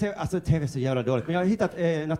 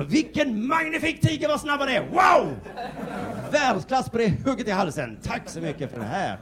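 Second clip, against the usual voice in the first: much higher, loud and thrilled; awed commentator; 8 semitones higher, 3 dB louder, slower than usual. Retold or imitated. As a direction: gush over the tiger like a fan. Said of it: "vända på det också". (högt, hänfört beundrande kommentatorsröst)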